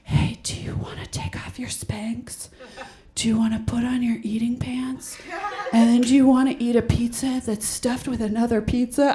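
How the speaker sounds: soft tempting whisper in the ear; whispering temptation. Pretend. Someone tempting her at the Emmys, hushed whisper in her ear. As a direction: coax her into comfort, hushed. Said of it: "someone just whispered in my ear".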